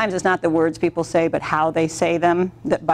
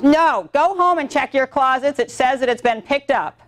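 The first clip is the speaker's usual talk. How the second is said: mildly imitating a curt owner, higher; curt brush-off; 6 semitones higher than usual. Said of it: "That's how she talked to me".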